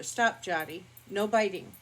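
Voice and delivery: a firm word to the dog; mild no-nonsense correction; firm scolding. Real, not acted. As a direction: tell the dog off, moderately. Scolding dog during video.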